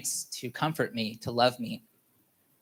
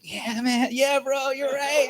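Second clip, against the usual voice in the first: much higher, amused yeah bro; laughing agreement; 12 semitones higher, slower than usual. Retold or imitated. Answering his joking brother, laughing. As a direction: agree while cracking up.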